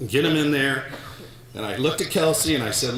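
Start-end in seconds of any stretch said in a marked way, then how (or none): none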